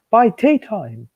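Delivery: high, slow, loud put-on stern boss voice; stern controller. Kid voicing the controller scolding the engines, stern and loud. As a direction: demand it like an angry railway boss. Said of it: "The Thin Controller was very cross".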